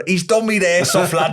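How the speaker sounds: playful Scouse complaint; Scouse accent. Acted. Host imagines foreign striker fouled in the box, Scouse accent. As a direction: moan it in a put-on Scouse accent. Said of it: "to be given a Scouse accent".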